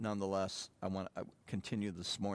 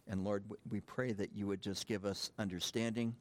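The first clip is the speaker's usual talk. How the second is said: prayer. Real, not acted. Leads congregational prayer.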